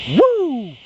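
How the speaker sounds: high, squealing burst of joy; inner excitement. Retold or imitated. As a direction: let it all out like a kid on a green light. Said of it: "my mind goes".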